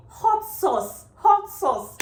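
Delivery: high, loud shouted hot sauce; screaming. Retold or imitated. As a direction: yell it across the counter. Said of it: "I was screaming".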